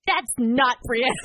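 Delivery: put-on slow, firm toddler voice; lightly voiced stubborn toddler. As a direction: insist like a stubborn little kid. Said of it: "she's like".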